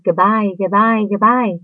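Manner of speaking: high calls fading off into the distance; calling goodbye. A narrator's reading. Baby spiders calling goodbye while floating off. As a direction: call out farewells as you drift away. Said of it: "they called".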